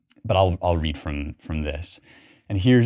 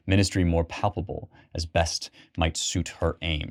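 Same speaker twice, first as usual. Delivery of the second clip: measured, unhurried reading of blank verse; poem reading. Acted. Lecturer reads the Prelude to his class, measured poem reading. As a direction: let the lines flow like spoken verse.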